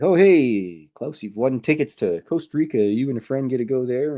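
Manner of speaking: lightly voiced radio host; radiobeller. Radio caller announcing a prize.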